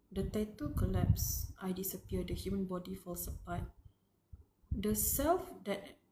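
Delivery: measured reading of a horror passage; story reading. Acted. Fan reading the novel aloud, grave narration. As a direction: read the transformation out gravely.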